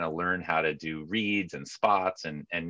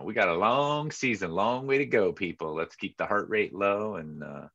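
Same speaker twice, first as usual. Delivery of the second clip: calm veteran voice; 2 semitones higher than usual. Retold or imitated. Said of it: "leave it to Tuttle to bring the old".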